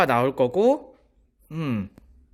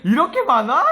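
laughing disbelief; 7 semitones higher, 4 dB louder than usual. Retold or imitated. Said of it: "약간 이런 거 있지".

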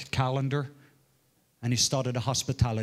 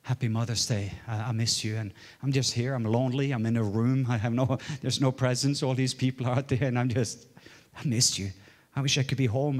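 1 lonely call. Retold or imitated. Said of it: "I called my wife and I said".

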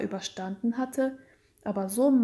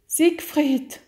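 higher, emotional call of the name; tearful call; 5 semitones higher, 4 dB louder than usual. A narrator's reading. Weeping wife calling her stunned husband, urgent tearful appeal. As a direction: call to him with a touch of weeping. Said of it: "sagte Genovefa weinend".

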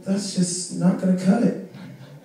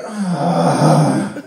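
exasperated groan. Retold or imitated. Dad sighs, giving in.

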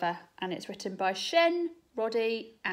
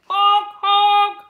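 loud, high honking like a bus horn; blaring horn honks; 12 semitones higher, 15 dB louder than usual. Acted. Teacher voicing the bus horn for the children, loud honking. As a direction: blast out the honks. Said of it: "blared the horn".

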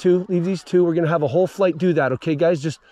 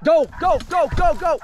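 shouted command; 11 semitones higher, 3 dB louder than usual. Real, not acted. Calling the shot.

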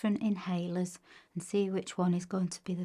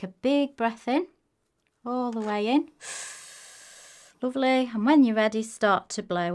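encouraging coach; 3 semitones higher, 3 dB louder than usual. Real, not acted. Coaching child through blowing test.

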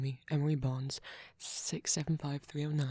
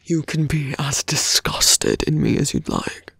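villain voice; 16 dB louder than usual. Acted. Villain taunting the little hero before leaving, close menacing whisper. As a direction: toy with the hero like a smug villain, murmured close to the ear.

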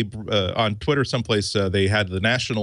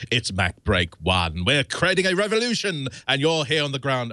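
hyped radio station ident; mock radio announcer patter. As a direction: sell it like a Beats One DJ. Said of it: "I can't keep that up".

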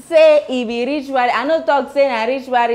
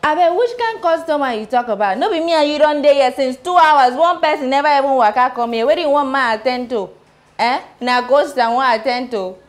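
louder, exasperated comeback; heated retort; 3 semitones higher, 3 dB louder than usual. Acted. Shop girl snapping back at her coworker, louder. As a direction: push back, raising your voice.

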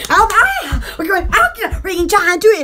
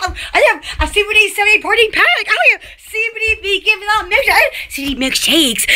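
laughing; much faster than usual. Real, not acted. Rattling off products while laughing.

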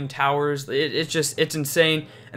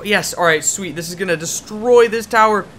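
higher, louder gleeful call; excited; 3 semitones higher, 6 dB louder than usual. Real, not acted. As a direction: cheer the push on. Excited at winning push.

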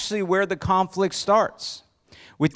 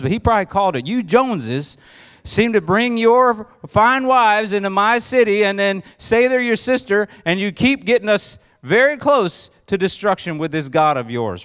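raised, fed-up rant climbing higher; exasperated king; 3 semitones higher, 3 dB louder than usual. Retold or imitated. Abimelech fuming at the Joneses and their wives, exasperated. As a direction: vent like a king out of patience. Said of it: "Abimelech is probably thinking".

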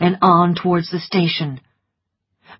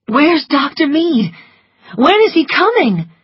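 put-on higher, urgent young woman; Scarlett's voice; 10 semitones higher, 4 dB louder than usual. A narrator's reading. Scarlett telling Melanie, in her raised voice. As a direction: voice Scarlett with quick worry.

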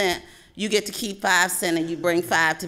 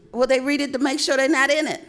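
quoting mom higher and faster through a laugh; mom's answer, laughing; 8 semitones higher, faster than usual. Retold or imitated. Mother joking to her child about the obituaries, laughing. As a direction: toss off mom's dry answer with a chuckle. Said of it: "And I asked my mom one time".

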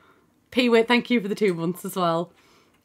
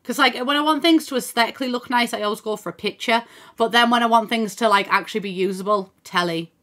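casual London accent; chatty London twang. Real, not acted. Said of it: "I can't stop speaking in a fucking London accent".

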